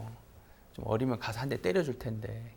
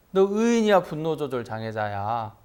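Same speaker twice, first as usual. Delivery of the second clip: louder challenge; 2 semitones higher, 6 dB louder than usual. Retold or imitated. Pastor presses student, louder repeat.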